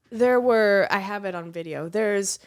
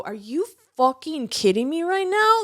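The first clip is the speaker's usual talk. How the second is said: retold outburst; 5 semitones higher, 3 dB louder than usual. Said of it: "you can hear him go".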